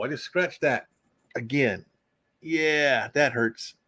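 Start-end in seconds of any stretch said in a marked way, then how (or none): none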